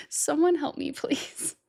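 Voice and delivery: laughing through a mock plea. To the viewers, giving up on the lyric: laughing plea. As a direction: beg for help while cracking up.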